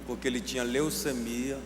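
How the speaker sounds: low, soft, measured storytelling; hushed and deliberate, with long pauses; solemn testimony. Retold or imitated. Preacher retelling a mother's visit to the doctor, solemn.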